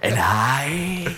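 breathy put-on villain voice. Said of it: "breathy as shit".

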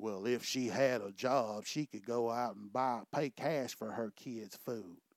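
put-on muttering under breath. Retelling what a woman in the grocery line said: imitating someone whispering under her breath. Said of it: "whispering under her breath".

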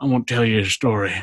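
ridiculous put-on Southern accent. Describing a recording on the show, the speaker gives a sample in a ridiculous Southern accent. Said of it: "I'm doing a ridiculous, like Southern accent".

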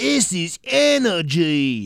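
high, boastful voice with "energy" stretched out. Repeating the survivalist's catchphrase: imitating Bear Grylls. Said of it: "That's what he used to say".

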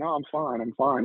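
put-on tearful voice. Retelling a tense conversation at work: imitating a tearful reply. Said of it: "I would just respond through tears".

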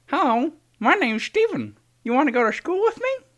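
very high, squeaky comedy character voice. Performing a new character named Steven for another speaker: put-on Steven character voice. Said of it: "this is what I got thus far".

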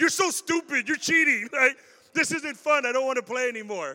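furious, loud, sulky, angry rant. Acting out a player stuck in a corner all game: imitating an angry player. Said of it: "sitting there super angry".

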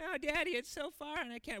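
very high, sarcastic, kid-like mocking whine. Imitating the kids complaining to Daddy: mocking imitation of complaining kids. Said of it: "kind of that mocking".

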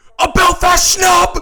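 shrill, very loud, high shouting. Watching the nominations live, shouting out a reaction, yelling. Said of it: "I shouldn't be yelling".

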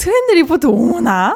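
loud, playful, jokey delivery. Asked to say the catchphrase again in a fun way, playful reading. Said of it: "아니 재밌게 읽어야지".

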